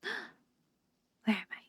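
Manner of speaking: slow, breathy whispered question; slow whisper after a gasp, disoriented. Acted. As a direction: whisper it, dazed and lost. Waking up confused on bench.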